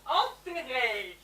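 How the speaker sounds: slow, drawn-out dictation word. Acted. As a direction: spell it out slowly for pupils. Dictation word slowly repeated.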